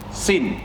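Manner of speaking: "sin" with a falling fourth tone. Shown as a demonstration. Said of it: "nada yang keempat".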